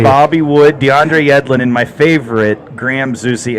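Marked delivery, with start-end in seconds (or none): 1.6-3.6 dry sarcastic praise; mean the opposite of favorite; deadpan sarcasm naming the last player. Acted. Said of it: "I say favorite very sarcastically".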